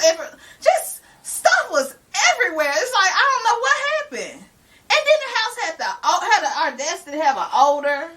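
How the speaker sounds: words broken by laughter, pitched high; laughing. Real, not acted. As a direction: laugh through the complaint. Laughing while retelling mess.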